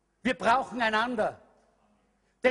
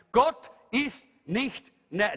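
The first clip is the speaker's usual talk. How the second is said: normal talking voice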